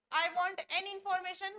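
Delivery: each word spaced out slowly for students; slow model sentence. Shown as a demonstration. Teacher reading an example sentence for learners, slowly. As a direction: dictate it slowly. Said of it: "गलत sentence".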